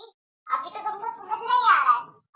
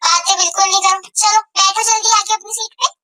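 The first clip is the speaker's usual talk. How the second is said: sing-song teacher; 10 dB louder than usual. Acted. Teacher seats class.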